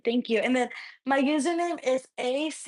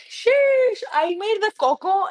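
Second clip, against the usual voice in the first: mock heat exclamation; 8 semitones higher, slower than usual. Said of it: "people are like".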